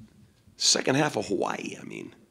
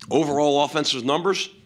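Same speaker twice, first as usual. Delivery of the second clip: mouth full; 4 semitones higher, 4 dB louder than usual. Real, not acted. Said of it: "I got a lozenge in my mouth".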